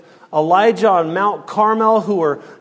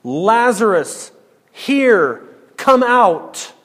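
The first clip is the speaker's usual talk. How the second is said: 1 rising call; 4 semitones higher, slower than usual. Acted. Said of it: "Literally in the language".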